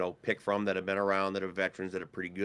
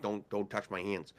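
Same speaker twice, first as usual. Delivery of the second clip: feeling sick; 9 dB quieter than usual. Retold or imitated. Sick coach refusing handshake.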